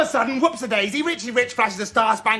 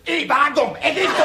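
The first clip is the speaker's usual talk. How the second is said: a hammed-up attempt at a Cockney accent that comes out northern; mock Cockney milkman voice trying out the part; 3 semitones higher, 4 dB louder than usual. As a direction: bluff a Cockney accent, a touch louder. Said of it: "Cockney, of course".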